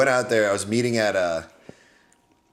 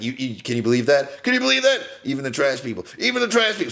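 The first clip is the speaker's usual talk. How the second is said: excited Riff Raff; 4 semitones higher, faster than usual. Retold or imitated.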